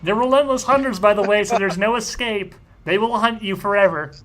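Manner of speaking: high, loud menacing taunt; gloating villain. Acted. Villain gloating at the fleeing girl, high mocking menace. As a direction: gloat that there's no escape.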